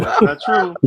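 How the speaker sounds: loud, insistent denial. Real, not acted. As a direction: shout it down firmly. Forceful denial of the rumor.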